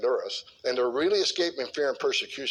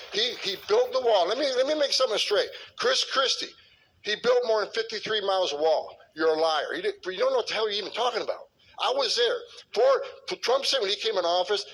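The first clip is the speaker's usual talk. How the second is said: raised pitch, indignant and insistent; heated rebuke; 6 semitones higher than usual. Real, not acted. Speaker calling out Chris Christie, heated and raised pitch. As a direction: call him a liar to his face, fired up.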